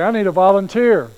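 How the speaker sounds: loud barked call to the line; drill sergeant. Retold or imitated. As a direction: bark it at the troops. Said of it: "line up all the guys and say".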